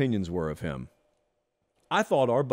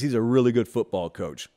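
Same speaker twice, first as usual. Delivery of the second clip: 1 John Malkovich impression; 4 semitones lower than usual. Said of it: "get down to the John Malkovich part".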